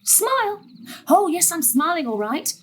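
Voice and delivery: high mock-cheerful sarcasm; sarcastic. Mother scolding gran for her prank, sarcastic. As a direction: bite out the irony.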